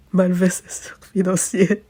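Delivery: sly whispered jab; whispered aside. Real, not acted. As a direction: drop to a conspiratorial whisper. Snide aside about a politician.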